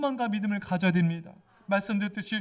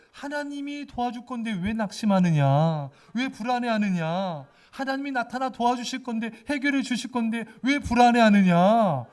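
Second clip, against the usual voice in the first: self-rebuke; 6 dB louder than usual. Pretend. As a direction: rebuke your soul, growing louder. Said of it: "이런 거예요". (자기 영혼을 꾸짖듯 점점 크게)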